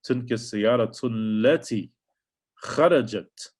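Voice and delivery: تلك السيارة التي خرجت read fast; fast Arabic model. Shown as a demonstration. Teacher shows how the sentence flows when read. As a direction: say it quickly as one flow. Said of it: "So you say".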